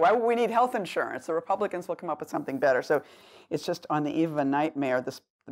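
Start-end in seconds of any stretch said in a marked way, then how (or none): 0.0-2.8 mock-naive question, pitched up; sarcastic. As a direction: play dumb with heavy irony, voice lifted at first. Mocking the repeal of insurance.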